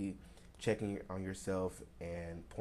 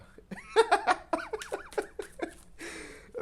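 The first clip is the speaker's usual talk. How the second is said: high-pitched, loud burst of helpless laughter; big laughing fit; 7 dB louder than usual. Real, not acted. Reader cracks up at her own Boston accent, laughing loudly.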